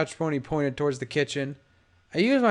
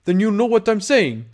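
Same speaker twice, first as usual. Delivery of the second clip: angry; 6 semitones higher, 6 dB louder than usual. Acted. Gangster threatens.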